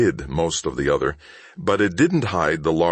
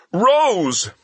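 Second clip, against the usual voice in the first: high, louder whimpered cry; whimpering; 5 dB louder than usual. A narrator's reading. Thief blurting his employer's name, high whimper. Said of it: "Stop whimpering".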